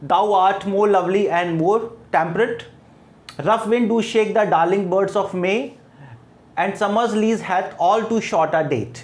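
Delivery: slow, measured reading of the verse; poem recitation. Shown as a demonstration. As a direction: read each line slowly like a poem. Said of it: "तो हम poem की line देखें तो". (धीमा कविता पाठ)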